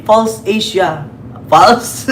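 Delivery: slow, mock-puzzled echo of the survey name, then a laughing question; imitating Marcos. Vlogger mimicking Marcos's reply to the reporter, amused and slow. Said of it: "anong survey?".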